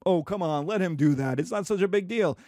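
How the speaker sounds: lightly voiced dismissive parent; indulgent grandparent. Grandparent telling parent to let child be, lightly acted dismissiveness. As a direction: wave the worry away casually. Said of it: "your parent will be telling you".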